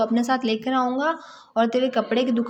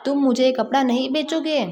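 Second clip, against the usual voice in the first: mild angry mouse. Acted. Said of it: "चूहा गुस्से से बोला".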